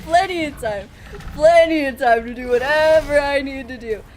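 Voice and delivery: loud, cocky insistence on plenty; mock confident. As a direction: brag it loudly like nothing's wrong. Mocking confidence while in danger.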